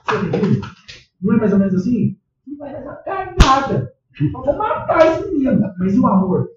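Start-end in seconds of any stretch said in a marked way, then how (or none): 2.5-5.6 louder, higher, slow mock threat; hammed-up angry father; mock exasperated parent. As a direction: play a fed-up dad. Parent voiced losing patience.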